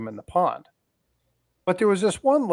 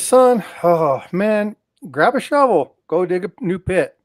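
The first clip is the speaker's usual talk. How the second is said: gruff grandpa order; 5 semitones higher, 6 dB louder than usual. Retold or imitated.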